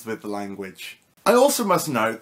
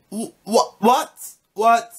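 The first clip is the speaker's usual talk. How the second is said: mock disbelief; 8 semitones higher, 4 dB louder, slower than usual. Shocked thongs mean flip-flops.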